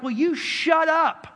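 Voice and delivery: high, loud and slow, ending in a shout; slow furious scolding that bursts into a yell; mean telling-off. Retold or imitated. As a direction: snap at the mouthy kid to shut up. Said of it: "I was really that mean to the kid".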